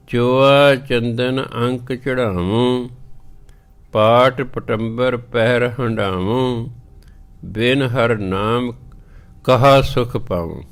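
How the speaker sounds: slow measured reading of gurbani; scripture recitation. Acted. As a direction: recite it slowly and clearly. (ਹੌਲੀ ਪਾਠ ਵਾਲੀ ਆਵਾਜ਼)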